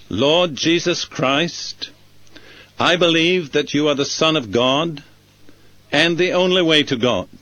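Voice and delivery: measured model prayer with short pauses; deliberate prayer for others to listen to; slow, careful prayer. Shown as a demonstration. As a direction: pray it slowly and carefully, right through. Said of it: "I'll say it slowly and carefully".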